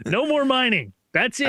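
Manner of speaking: high, final and firm; stern townsfolk. Retold or imitated. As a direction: say it like the last word. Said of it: "and they're like".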